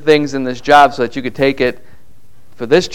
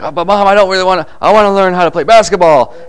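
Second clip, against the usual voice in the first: put-on whiny kid; 5 semitones higher, faster than usual. Young David whining to mom.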